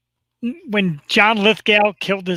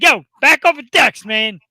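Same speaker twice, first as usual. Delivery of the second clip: mock yell, louder and higher; 4 semitones higher, 5 dB louder than usual. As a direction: shout it like a worked-up viewer. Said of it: "I'm screaming at the T V like".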